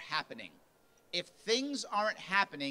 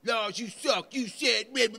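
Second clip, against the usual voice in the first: higher and louder, scolding a volunteer; mock angry yelling; 5 semitones higher, 6 dB louder than usual. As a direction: chew him out, loud and high. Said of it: "What usually happens?".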